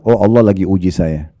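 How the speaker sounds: gentle, accepting sigh of resignation; calm acceptance. Shown as a demonstration. Preacher showing the accepting response to a trial, calm and gentle. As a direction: say it with an open, easy heart. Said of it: "Maka yang benar adalah".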